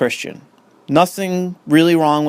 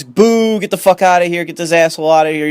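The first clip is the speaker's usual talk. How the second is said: mock heckling, pitched up then settling; mock crowd jeering; 3 semitones higher than usual. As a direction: imitate a crowd booing someone out. Acting out a crowd booing someone.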